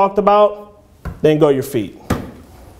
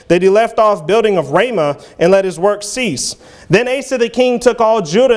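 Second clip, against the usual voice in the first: measured King James reading voice; scripture reading. Acted. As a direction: read it out like a preacher quoting scripture. Reads the scripture passage.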